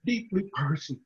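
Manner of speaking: tearful and choked up. Real, not acted. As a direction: close to crying. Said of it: "get you some tissue".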